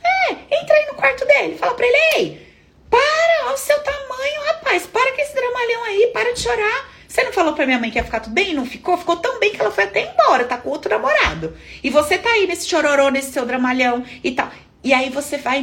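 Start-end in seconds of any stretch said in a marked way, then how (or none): 0.0-6.9 high-pitched mock scolding; exasperated, high telling-off; daughter telling dad off. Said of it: "voltar lá e falar pro papai tudo". 7.1-14.5 fast, higher-pitched mock reproach; acted, hurried telling-off; daughter confronting dad. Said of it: "falar pro papai tudo que ele falava".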